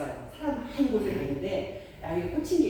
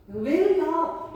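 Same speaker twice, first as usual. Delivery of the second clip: drawn-out, loud, high "why"; exasperated parent's mock scolding cry; 10 semitones higher, 7 dB louder, much slower than usual. Parent to child who spilled a snack, scolding.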